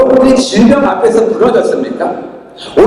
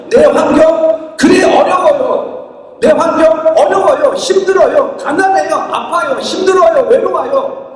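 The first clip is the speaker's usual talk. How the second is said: mock lament; 4 semitones higher, slower than usual. Preacher voices a struggling believer.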